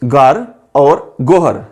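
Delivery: घर with aspirated घ, then गोहर with separate ह; contrasting word pair. Shown as a demonstration. Teacher presenting two similar words to students, slow and clear. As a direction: say घर and गोहर slowly to set them apart. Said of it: "एक और मिसाल देखें".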